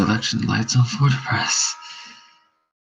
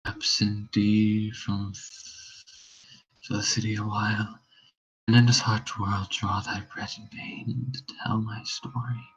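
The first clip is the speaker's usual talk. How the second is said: faint deathbed whisper; 11 semitones lower than usual. Acted. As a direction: let each word cost breath. Dying whisper.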